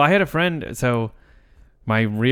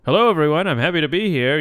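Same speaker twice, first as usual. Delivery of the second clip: higher, louder stage greeting; mock public introduction; 5 semitones higher, 4 dB louder than usual. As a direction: greet a crowd in your own high voice. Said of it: "doing that weird impression just when you say your name".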